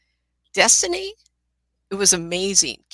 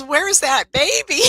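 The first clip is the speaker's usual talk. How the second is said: loud, high, drawn-out question; exclaimed slowly and high; urgent retold demand; 9 semitones higher, 8 dB louder, slower than usual. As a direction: call it out urgently, acting it up.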